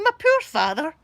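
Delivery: high, loud, nearly tearful laugh; mock pity, cracking up. Real, not acted. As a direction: wail it through real laughter.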